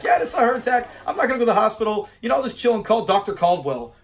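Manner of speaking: lightly voiced Fred, amused and teasing; poking fun at the old man's excuse, laughing; mock quote, laughing. Mocking Fred's line, laughing.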